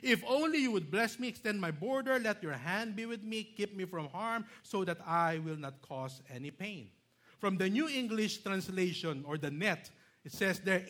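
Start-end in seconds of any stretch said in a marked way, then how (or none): 0.0-6.9 "only" pushed high and loud; loud stressed reading. Shown as a demonstration. Pastor rereading the verse, high loud proclaiming. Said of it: "Did you see that?".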